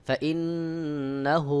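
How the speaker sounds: ফা ইন্নাহু with the নু nasal held long, slowly; ghunna on the doubled nun. Shown as a demonstration. Teacher demonstrating the obligatory ghunna to students. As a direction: stretch the ন্ন of ফা ইন্নাহু into a nasal hum. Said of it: "সহি উচ্চারণ হলো".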